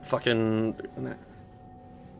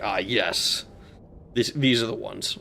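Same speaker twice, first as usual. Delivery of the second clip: much lower, soft Mel Gibson impression; 5 semitones lower, 9 dB quieter than usual. Streamer mocking chat's pick with a low, soft Mel Gibson impression. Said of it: "I could do a Mel Gibson voice".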